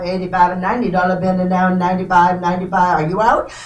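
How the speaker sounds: rapid rhythmic auction chant; auctioneer. Real, not acted. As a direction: rattle off the bids like an auctioneer. Live auction bid calling.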